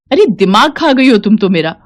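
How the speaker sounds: irritated officer snapping at a woman; scolding. Acted. Arrogant officer scolding a pleading widow, annoyed. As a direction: brush her off with contempt. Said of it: "वो किसी औरत को डांट रही है".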